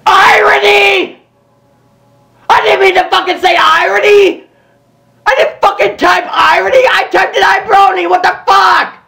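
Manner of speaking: half-crying, fast panicked shout; desperate denial; frantic distressed yelling. Real, not acted. Streamer panicking over the word he typed, frantic yelling.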